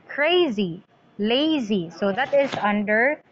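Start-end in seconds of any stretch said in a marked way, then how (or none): 0.1-1.9 "Crazy, lazy" stressed as CRA-zy, LA-zy; stress on first syllable. Shown as a demonstration. Teacher demonstrating feminine rhyme, first-syllable stress. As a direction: hit the first syllable of "Crazy" and "lazy", let the second fall. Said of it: "the stress is in the first syllable".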